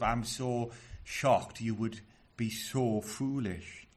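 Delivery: slow, understated disbelief; shocked, urgent. Acted. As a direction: say it slowly, as if mildly shocked. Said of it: "still in that same tone of voice".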